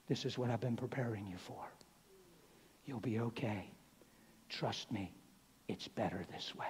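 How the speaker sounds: soft, low, falling murmur; quietly reassure, pitch sinking with each phrase; coaxing inner voice. Retold or imitated. Deceiving voice talks to preacher by the hospital bed, softly coaxing. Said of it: "this voice says".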